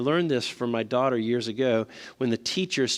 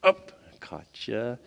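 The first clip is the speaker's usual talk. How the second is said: mock gotcha parent; 3 dB louder than usual. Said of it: "We're like".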